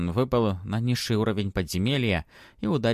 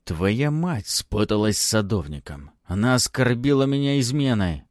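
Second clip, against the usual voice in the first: angry; 4 dB louder than usual. Acted. Baron accuses the mother.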